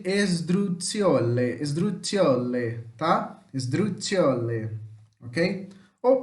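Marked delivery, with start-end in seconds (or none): 0.0-1.6 slow, careful "esdruzione" as Italian sdrucciole; Italian term pronounced. Shown as a demonstration. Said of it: "é também chamado de". 1.6-2.8 slow "esdruzione" as Italian sdrucciole, pitched lower; Italian term pronounced. Shown as a demonstration. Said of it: "é também chamado de". 3.5-4.7 slow, lower "Esdruzione" as Italian sdrucciole; Italian term pronounced. Shown as a demonstration. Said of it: "é também chamado de".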